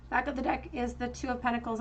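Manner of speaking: hoarse voice cracking on words. Real, not acted. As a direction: voice breaking, a little strained. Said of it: "my voice is cracking".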